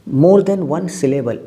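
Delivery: very slow, each word laid out; slow teacherly emphasis; slow, spelled-out explanation. Shown as a demonstration. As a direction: spell it out slowly for students. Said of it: "एक से ज़्यादा syllable आता है".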